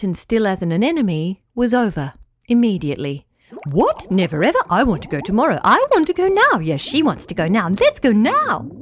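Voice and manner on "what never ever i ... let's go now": excited little fish begging, climbing higher; pleading fish voices. Acted. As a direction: beg to go right now. Fish protest wanting to go.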